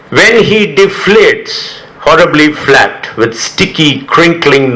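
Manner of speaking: measured, deliberate poetry recital; poem reading. Acted. Poet reading a poem about an inflatable punching toy, measured recital. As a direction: read it out slowly, phrase by phrase.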